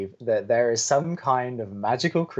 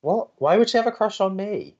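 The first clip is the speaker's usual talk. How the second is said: flustered denial; 11 semitones higher than usual. Acted.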